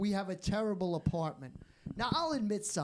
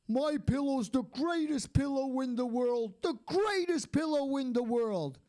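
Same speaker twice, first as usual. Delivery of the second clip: mock TV pitchman; 3 semitones higher than usual. Comic mocking the My Pillow guy's ad with a mild pitchman voice. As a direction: sell it like a late-night TV ad guy.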